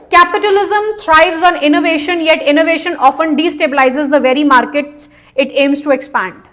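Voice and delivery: slow reading of the passage to the class. Shown as a demonstration. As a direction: read the passage slowly. Reads question passage aloud. (धीमे-धीमे अनुच्छेद पढ़ना)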